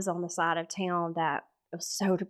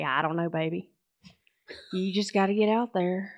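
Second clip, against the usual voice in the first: put-on Mississippi accent. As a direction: lay on a laid-back Mississippi accent. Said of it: "that's my best Mississippi accent".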